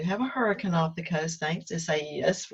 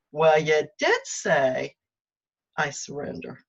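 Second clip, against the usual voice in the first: amused inner voice; 4 dB louder than usual. Retold or imitated. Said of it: "heard it say".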